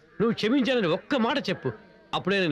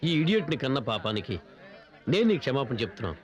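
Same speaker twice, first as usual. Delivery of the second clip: humble apology; 12 semitones lower than usual. Acted.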